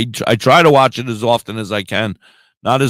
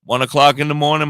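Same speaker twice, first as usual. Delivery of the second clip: ordinary talk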